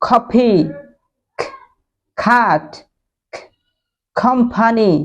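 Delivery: খ then each word, the k aspirated; teacher drilling aspirated k words; drilled word list. Shown as a demonstration. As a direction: say খার, কফি, ক্লাব with a breathy kh. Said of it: "তাহলে বলেন".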